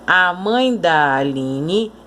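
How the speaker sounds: slow, da swallowed into mãe; "mãe da" run together, "da" light and weak; weak unstressed da. Shown as a demonstration. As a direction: let "da" glide unstressed off "mãe". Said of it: "esse da quase que se junta com a palavra mãe".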